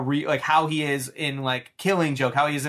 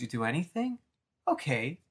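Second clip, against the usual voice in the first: quiet menace; 8 dB quieter than usual. Retold or imitated. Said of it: "The Joker goes".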